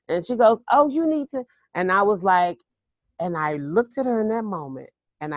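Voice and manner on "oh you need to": put-on high, coaxing old lady voice; older Southern lady. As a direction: urge her sweetly, pitched high. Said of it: "She was this older Southern lady".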